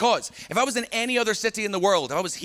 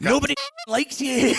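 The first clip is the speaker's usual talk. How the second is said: put-on taunting baby talk; 7 semitones higher than usual.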